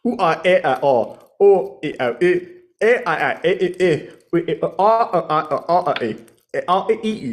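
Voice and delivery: silly babbling vowel sounds; gibberish noises. Acted. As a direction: nonsense game-character chatter.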